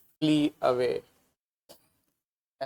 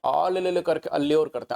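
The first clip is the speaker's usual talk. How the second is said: calling a street dog to a biscuit, chirpy; sing-song ले, ले, ले to lure a dog; coaxing a dog. Retold or imitated. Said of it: "कुत्तों को biscuit ऐसे खिलाते हैं".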